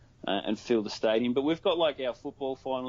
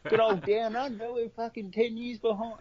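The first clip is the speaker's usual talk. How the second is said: mock self-deprecation; 11 semitones higher than usual. Mocking his own country.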